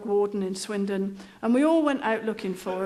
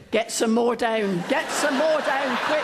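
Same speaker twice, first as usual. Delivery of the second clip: urgent plea. Retold or imitated. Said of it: "Tatty down on the floor saying".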